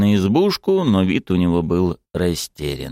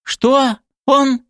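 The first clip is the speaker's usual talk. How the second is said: high, stunned squeak of disbelief; can't believe her ears; 4 dB louder than usual. A narrator's reading. Rights activist hearing the thug offer, stunned disbelief. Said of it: "не могла поверить своим ушам".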